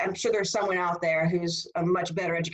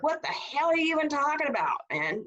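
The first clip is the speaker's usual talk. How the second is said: higher-pitched mock exasperation; retold outburst; 6 semitones higher than usual. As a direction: act out losing it at a neighbor. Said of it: "I just kinda lost my mind".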